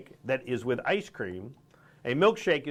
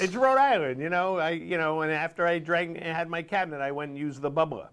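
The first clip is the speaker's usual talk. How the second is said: lightly put-on Rhode Island accent; 3 semitones higher than usual. Shown as a demonstration. Host explains home slang to co-host, Rhode Island accent. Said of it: "I suddenly assume an accent".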